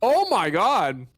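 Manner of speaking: amazed. Real, not acted. Reacting to a play.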